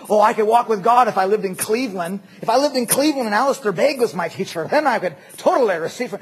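loud, badly faked Scottish accent; horrible Scottish accent. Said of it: "that was a horrible Scottish accent".

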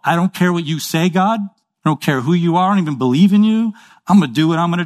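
brash, fast, rising defiance shouted at God; defiant rebel. Acted. The world's voice defying God, brash and defiant. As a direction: throw it in God's face, reckless and cocky.

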